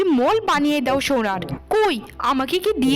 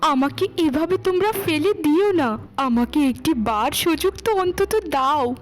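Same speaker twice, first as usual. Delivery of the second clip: pleading. Acted. Wife begs not to be thrown out.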